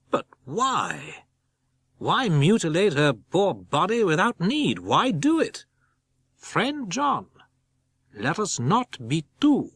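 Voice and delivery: pleading professor. Acted. Van Helsing pleads with John.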